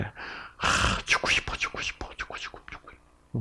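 faint, fast whispered "죽고 싶어"; whispering the despairing inner voice. Acted. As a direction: breathe out hopeless repetitions.

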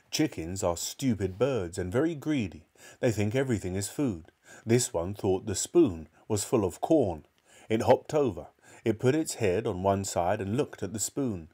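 put-on measured children's storybook reading; story narration. A narrator's reading. Narrator telling of George's trouble, storytelling. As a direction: read the tale aloud with care.

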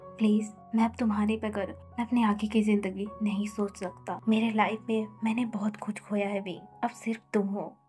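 soft, hushed pleading, almost whispered in places; tender plea. Acted. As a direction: beg her gently to stay. Husband pleads with Wing to stay. (धीमी, कोमल विनती)

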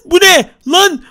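a sudden shocked yelp. Acted. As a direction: yelp it in alarm. Shocked at the damage.

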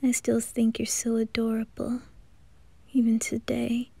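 soft unvoiced whisper, close and tender. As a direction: breathe it to him like a secret.

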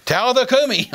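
retold yell. Preacher to the dead baby girl, retold yell. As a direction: re-enact a commanding shout. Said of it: "I yelled at her in a loud voice".

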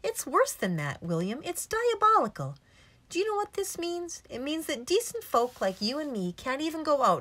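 high, agitated indignation; indignant outburst, pitched high; outraged. Acted. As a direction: rant in scandalised outrage. Doctor rages about the pit trap.

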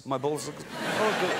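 put-on comic Russian-accented reply; funny Russian accent. Comedian voicing the reply in their banter, funny Russian accent. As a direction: answer in a mock Russian accent. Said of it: "in a funny Russian accent".

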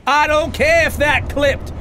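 slow, high victorious yell; elated shouting. Real, not acted. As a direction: shout it out, thrilled with the win. Still shouting after victory.

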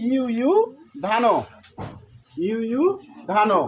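ইউ ইউ ধানো in two parts with a pause; pronunciation demo. Shown as a demonstration. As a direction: model ইউ ইউ, then ধানো, separately. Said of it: "উচ্চারণ কি হলো?". (ইউ ইউ ধানো থেমে থেমে উচ্চারণ)

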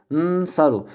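Nsaru sözünün başında ünlüsüz, uzatılmış bir n; Nsaru: önce genizde tutulan nnn, sonra saru; harekesiz ilk ses. Shown as a demonstration. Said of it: "Çünkü telaffuz edilemiyor". (Nsaru'yu sakin nun ile, başına ünlü koymadan söyle)

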